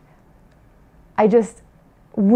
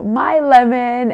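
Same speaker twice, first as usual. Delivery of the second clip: slow, higher teasing singsong; teasing sing-song; 4 semitones higher, 3 dB louder, slower than usual. Retold or imitated. Mother imitates daughter teasing her twin, slow singsong. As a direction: drawl it out like a kid taunting. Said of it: "she starts teasing her sister".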